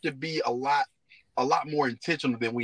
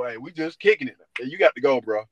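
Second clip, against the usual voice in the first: gruff overprotective dad. Retold or imitated. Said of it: "That's gonna scare a lot of dudes".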